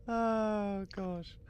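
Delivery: sharp high gasp, then oh gosh; shocked gasp. Real, not acted. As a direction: gasp in real surprise, voice jumping high. Shocked by the snack list joke.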